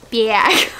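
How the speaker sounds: "Bag" repeated with a broad Midwest vowel; Midwest accent. Shown as a demonstration. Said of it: "My Midwest accent really came out there".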